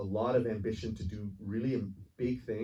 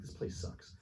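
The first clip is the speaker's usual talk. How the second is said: whispered under the breath, dismissive; sneering whisper; 11 dB quieter than usual. Retold or imitated. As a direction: hiss it out in a hushed, scornful whisper. Character sneers at his kingdom.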